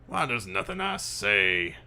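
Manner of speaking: lightly voiced, frustrated boss; irate police captain. Captain baffled by his detective, exasperated. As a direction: vent at an unflappable subordinate. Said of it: "Jackson comes up to you and goes".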